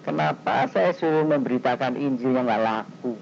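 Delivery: a touch of hurt in a retold prayer; sad plea. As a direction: complain sorrowfully to God, understated. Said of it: "Itu yang bikin saya sedih. Saya tuh bilang".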